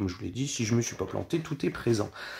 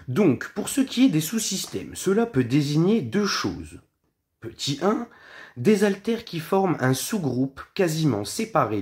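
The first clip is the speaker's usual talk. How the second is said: measured explainer read with lifted phrase starts; reading aloud; 3 semitones higher than usual. Real, not acted. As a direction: read out a prepared definition, point by point. Reads the prepared explanation. (lecture à voix haute, ton explicatif)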